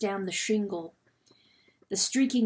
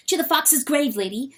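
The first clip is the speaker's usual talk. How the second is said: high, loud, broken-English weasel; a fretful creature blurting out bad news; agitated weasel John; 5 semitones higher, 3 dB louder than usual. Weasel John warning Lady Hen, high and loud.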